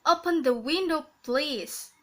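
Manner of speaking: "Open the window, please" with a falling "please"; falling intonation. Shown as a demonstration. Teacher repeating the command example, "please" falling. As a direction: end the command on a downward "please". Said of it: "falling intonation".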